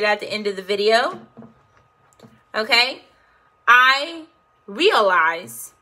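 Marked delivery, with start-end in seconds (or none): 3.7-5.7 slow, deliberate affirmation; repeat-after-me affirmation. Shown as a demonstration. Coach leads viewers in repeating, spoken as a deliberate affirmation. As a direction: model it word by word for repeating. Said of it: "you just say this right after me".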